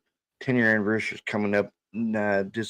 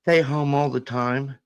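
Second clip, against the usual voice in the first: lightly imitated child, higher and drawn out; slightly raised, slow voice for a quoted little girl; retold young daughter; 5 semitones higher than usual. Daughter explains introvert to dad, lightly imitated child voice. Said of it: "She goes".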